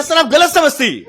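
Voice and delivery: high, loud, slow South Indian lilt; mocking South Indian tone. Trainee corrects the angry man, mocking his South Indian accent. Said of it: "हम उसका tone का ही मजाक उड़ा रहे हैं".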